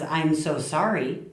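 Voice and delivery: slow, sincere apology; nice apology. Shown as a demonstration. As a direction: say sorry gently and mean it. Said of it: "nearly as nice as".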